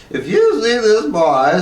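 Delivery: a dancer warns the viewers, slow and urgent; ballerina's warning. A narrator's reading. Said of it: "said the ballerina".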